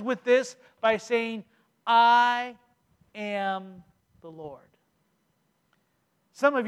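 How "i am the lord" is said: voice of God. Acted. Preacher voicing God's closing words, slow and grave. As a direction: intone it slowly as God.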